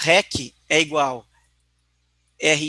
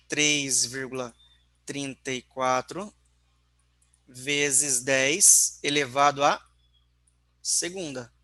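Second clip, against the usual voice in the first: slow dictation; slower than usual. Shown as a demonstration. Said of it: "dictating numbers to class".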